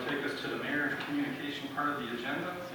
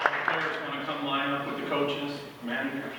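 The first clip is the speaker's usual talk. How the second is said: louder, higher call across the room; 4 semitones higher, 7 dB louder than usual. Real, not acted. Chair calling the players and coaches up front, louder call. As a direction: summon the players to line up.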